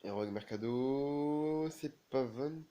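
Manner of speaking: real thrill as the late winner goes in; excited goal call. Real, not acted. Gamer calling his side's last-minute goal to viewers, excited.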